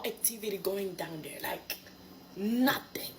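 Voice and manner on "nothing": whispered. Real, not acted. Emphatic aside about abstinence.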